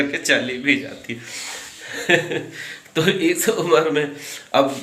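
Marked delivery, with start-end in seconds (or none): 1.8-2.7 short breathy giggle; quick stifled laugh; chuckle. Real, not acted. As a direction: laugh at your own joke. Laughing at his own joke.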